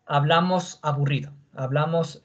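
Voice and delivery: mildly flat, bored teacher voice; bored, monotone demo. Shown as a demonstration. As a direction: talk as if boring the whole class. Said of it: "qué tal si la clase fuese todito así".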